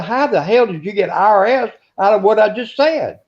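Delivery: high, exasperated disbelief; can't believe what he heard; incredulous. Retold or imitated. Census taker scoffing at a man who thinks he's IRS, high and incredulous.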